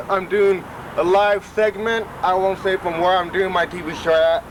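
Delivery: talking short of breath after exertion; slightly winded, breathing between words. Real, not acted. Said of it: "I'm a little out of breath".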